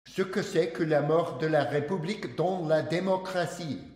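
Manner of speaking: best-shot amateur French accent. Shown as a demonstration. Lecturer attempting Montesquieu's original subtitle, French accent. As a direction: read it out in an earnest, imperfect French accent. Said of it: "my French accent sounds like le garbage".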